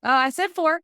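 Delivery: realizing her own slip to the co-host, surprised and amused; surprised laugh. Real, not acted. Co-host points out her miscount, she laughs, surprised.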